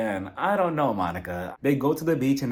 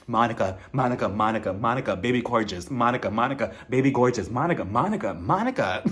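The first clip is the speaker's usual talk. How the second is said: mock soothing repetition; 3 semitones lower than usual. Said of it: "she just keeps repeating".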